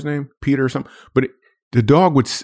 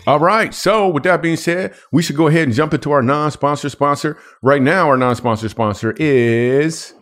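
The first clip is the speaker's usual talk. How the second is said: smooth radio host delivery; 4 semitones higher than usual. Acted. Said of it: "in the radio voice".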